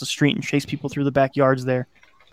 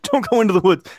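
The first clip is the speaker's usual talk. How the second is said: raised-pitch mild yell; narrated yell; 6 semitones higher, 3 dB louder than usual. A narrator's reading. Kid warning the others off the woods, yelling. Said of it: "I yelled".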